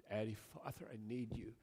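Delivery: put-on soft, understated childlike appeal; humble, dependent plea. Child of God praying to the Father, humble plea. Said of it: "a humble, dependent, childlike way".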